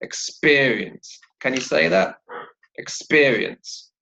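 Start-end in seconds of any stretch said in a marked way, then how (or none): 0.0-1.2 "experience" stressed on its second syllable; "experience" modelled with second-syllable stress, falling at the end. Shown as a demonstration. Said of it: "the second syllable". 2.8-3.9 "Experience" slow, second syllable stressed; "Experience" with drawn-out second-syllable stress. Shown as a demonstration. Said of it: "the second syllable".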